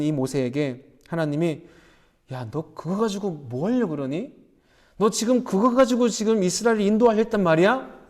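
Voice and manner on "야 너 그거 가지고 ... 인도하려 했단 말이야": imagined chiding of Moses; mock pressing. God questioning Moses about his only staff, mock pressing. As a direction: press him with incredulous questions. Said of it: "다그치지 않았어요".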